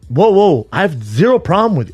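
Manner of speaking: retold taken-aback objection; caught off guard. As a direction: push back in startled self-defence. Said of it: "that caught me out of left field".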